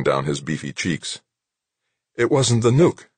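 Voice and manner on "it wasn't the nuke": raised, relieved echo, rising at the end; high but less soaring, thankful; relieved, grateful. A narrator's reading. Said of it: "sounding relieved, grateful".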